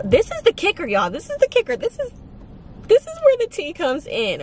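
high-pitched, animated build-up; excited reveal. Real, not acted. Storyteller teasing the big twist to viewers, excited reveal. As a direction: pitch it way up for the juicy part.

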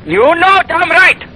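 put-on high, loud, slow yell in the Indian accent; shouting back in the Indian accent. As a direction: drag it out in a yell. Shouting match on the phone.

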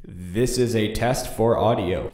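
slow test line with music-style reverb; light vocal effect on the voice. Shown as a demonstration. Demonstrating a vocal preset, reverb. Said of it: "regular vocal effects".

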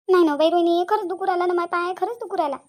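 loud, high whining protest; hammed-up wail of innocence; feigned pain. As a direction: plead agony to cover a lie. Caught faker insists leg hurts.

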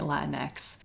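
"Latinx" said as Latin plus the letter X; chosen pronunciation. Shown as a demonstration. YouTuber telling viewers what she calls it, "Latinx" as Latin-ex. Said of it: "If you pronounce it differently".

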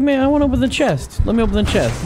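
high mock whine for the chest; mock eager voice. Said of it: "I was like".

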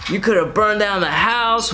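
1 imitating mom. Mom scolding about fire.

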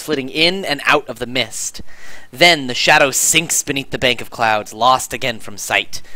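measured, dramatic scene setting; storyteller delivery, slowing at the close; game master narration. Acted. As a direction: paint the scene for the players.

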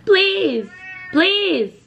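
squeaky high begging, please; high pleading. Acted. Pleading with viewers in a high squeaky voice.

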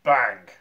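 loud, punchy voiced bang; gunshot bang. A narrator's reading. Narrator voices the rifle shot, loud bang. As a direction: shout it like a gun going off. Sound effect read out for gunshot.

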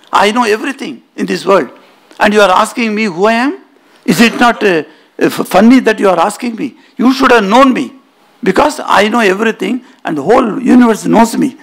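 mildly indignant pride, pitched a little up; proud. Acted. Agni boasting to the Yaksha who questioned him, proudly. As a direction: let the self-importance show, lightly acted. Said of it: "Agni says proudly".

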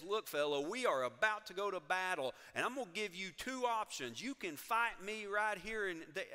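loud, brash tough-guy dare; tough challenge. Retold or imitated. Joshua daring the armed stranger to fight, brash and loud. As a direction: square up to him and throw down the challenge.

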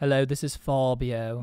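slow, drawn-out impression of a co-host; mock impression. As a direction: playfully draw out the self-introduction in another's voice. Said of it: "I wanna hear your impression of me".

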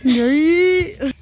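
bouncing while talking; on a trampoline. Real, not acted. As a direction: voice jolted by jumping. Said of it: "We're jumping on the trampoline".

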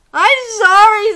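high, loud sniffly monkey voice; sneezy apology. Acted. Monkey apologizing to the rooster, high sneezy voice. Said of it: "sneezed the monkey".

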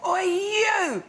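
mock shout. Retold stranger shouting across the road, loud. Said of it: "just shouts across the road".

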